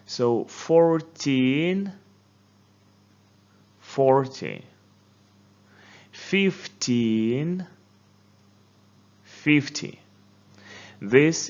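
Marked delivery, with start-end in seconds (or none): 0.0-10.0 fourTEEN slow and rising, FORty falling; stressed syllables. Shown as a demonstration. Teacher underlines stressed syllables for class. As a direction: underline each stress slowly. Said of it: "Let's underline these syllables again".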